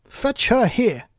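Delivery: high, sharp royal command; angry Queen. Acted. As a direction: bark it like a furious queen. Queen orders executioner.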